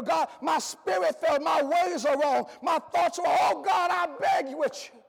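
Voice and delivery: a preacher praying as a weary, broken believer; pleading prayer. Acted. A preacher voicing a weary believer's prayer, pleading. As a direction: pour out the confession to God, half sung.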